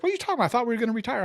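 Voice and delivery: sudden high-pitched what, then settling; shocked colleague. Retold or imitated. Colleague hearing he is quitting, shocked and high. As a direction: squeal the question in disbelief. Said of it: "She's like".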